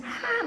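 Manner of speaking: high, soft imitation of a wailing scream; thin pretend tantrum cry; mock child's scream. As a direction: hold back a child's crying shriek. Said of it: "mas gritando muito alto".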